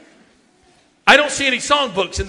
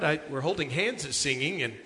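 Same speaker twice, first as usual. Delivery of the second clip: much softer, earnest hushed leader voice; hushed mock leader; 3 semitones lower, 10 dB quieter than usual. Youth leader coaxing the kids, hushed and earnest. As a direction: murmur it like a solemn campfire leader.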